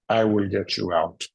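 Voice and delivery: lightly attempted Terminator accent; a rough go at Terminator-style German English; Klaus, Terminator accent. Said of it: "Terminator accent. I'll try".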